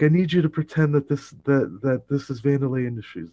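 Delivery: high, fast, loud retold plea; mock out of breath. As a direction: rush it urgently, pretending to be winded. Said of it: "all sweaty and out of breath".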